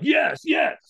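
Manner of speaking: high but held-back yeses; not full out. Retold or imitated. Firewalker not yet going full out, held back. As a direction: repeat yes without full power. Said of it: "he could tell I wasn't going full out".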